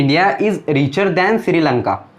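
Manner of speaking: reading the sentence slowly, word by word; slow example read. Shown as a demonstration. Teacher reads the example sentence to students, slowly. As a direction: dictate it to the class. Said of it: "first example देखते हैं".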